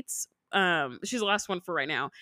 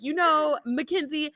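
high, harsh mock dance-teacher scold; lightly voiced nagging teacher; nagging inner critic; 5 semitones higher than usual. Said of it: "sounds like my inner critic".

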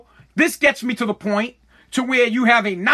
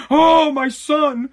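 slow, higher dramatic sigh; mock fretful parent; 4 semitones higher, much slower than usual. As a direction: ham up the worried parent. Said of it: "I'm gonna be all like".

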